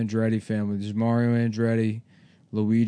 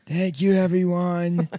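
put-on Italian accent; 6 semitones higher than usual. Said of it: "He's doing an Italian accent".

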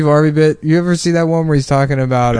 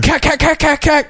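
high cack cack gun sound; mock gunfire noise; 14 semitones higher than usual. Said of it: "doing, like, a Arab voice".

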